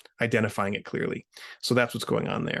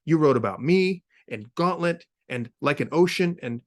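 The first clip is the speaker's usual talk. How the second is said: angry; 5 semitones higher than usual. Acted. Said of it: "now vibrating with rage".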